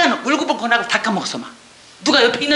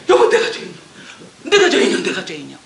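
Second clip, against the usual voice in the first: sobbing confession; 4 semitones lower, faster than usual. Retold or imitated. Weeping confession retold.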